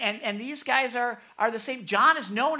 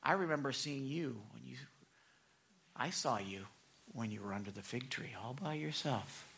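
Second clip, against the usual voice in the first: low, soft, intimate; Jesus telling Nathaniel softly that he saw him; tender recollection; 9 semitones lower, 12 dB quieter than usual. Retold or imitated. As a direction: speak softly as if sharing a secret memory. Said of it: "Jesus is like".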